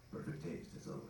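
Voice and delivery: very soft, almost voiceless quote; quiet aside. Retold or imitated. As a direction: drop to a hushed little murmur. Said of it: "I love Dietrich's little quiet little".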